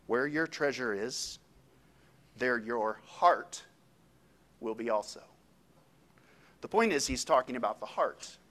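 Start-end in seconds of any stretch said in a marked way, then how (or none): 0.1-5.2 slow scripture reading. Acted. Reading scripture verse slowly.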